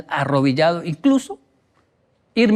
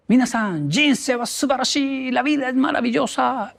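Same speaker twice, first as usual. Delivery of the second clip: imitated exuberant shout; 8 semitones higher than usual. Imitating his teacher calling to the class, exuberant high cry. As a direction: proclaim it like an eccentric teacher. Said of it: "y gritaba".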